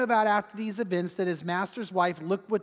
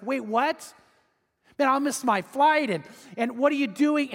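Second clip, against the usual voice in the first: startled disbelief; 5 semitones higher than usual. Acted. Husband startled and panicked.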